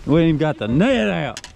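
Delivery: fast, high and urgent; fighting a fish. Real, not acted. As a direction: hurry while the fish pulls.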